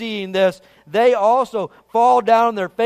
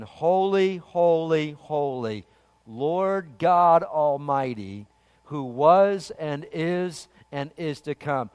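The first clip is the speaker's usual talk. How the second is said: slow, hushed recitation falling lower; reverent meditation; 4 semitones lower, 4 dB quieter, slower than usual. Retold or imitated. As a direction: dwell slowly on each phrase, softly. Savouring scripture for meditation.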